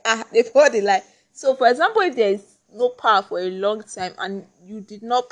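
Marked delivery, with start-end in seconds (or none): 0.0-1.0 surprised. Retold or imitated. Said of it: "you'll be surprised, like".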